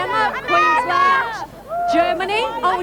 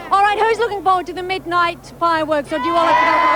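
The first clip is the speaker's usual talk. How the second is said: calling out; faster than usual. Real, not acted. Host calling out to crowd.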